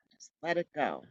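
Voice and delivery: quiet, releasing instruction; soft release. Shown as a demonstration. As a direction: ease off after a long exhale. Releasing after the demonstrated sigh.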